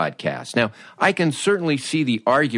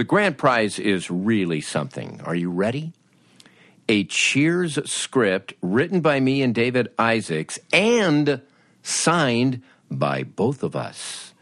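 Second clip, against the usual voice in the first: booming prize announcer. Pretend. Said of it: "I come from a radio background".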